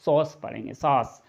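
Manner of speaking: सॉस as one syllable, "saas"; pronunciation demo. Shown as a demonstration. Teacher showing learners how AU is read, pronunciation demo. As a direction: say सॉस with a long open "aa/aw" vowel. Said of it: "तो क्या पढ़ेंगे".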